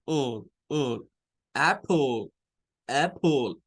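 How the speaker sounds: all said low, lips barely opening; apple ending in a lazy low schwa; schwa sound. Shown as a demonstration. Teacher shows lips barely opening on the schwa. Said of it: "mis labios casi no se abren".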